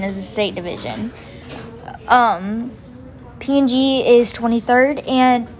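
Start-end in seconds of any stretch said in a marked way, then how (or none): 2.1-5.5 hiccuping between words; speech broken by hiccups. Real, not acted. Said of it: "sorry, I have the hiccups".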